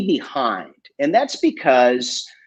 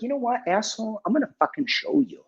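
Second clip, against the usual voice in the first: retold defiance; 9 semitones higher, 8 dB quieter, faster than usual. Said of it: "I was like".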